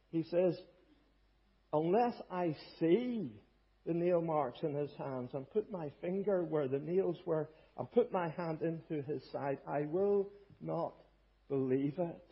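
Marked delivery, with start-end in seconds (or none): 1.7-12.2 mildly emphatic, slowing on "I will not". Acted. Preacher quoting the doubting disciple, mildly emphatic. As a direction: draw out "Unless I see" and "will not". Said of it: "he's so emphatic".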